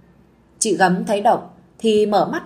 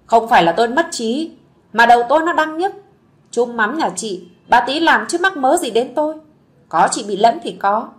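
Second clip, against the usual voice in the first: angry retort; 2 semitones higher than usual. Acted. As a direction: put the gossiping neighbour in her place. Slapped gossip, snaps back angrily.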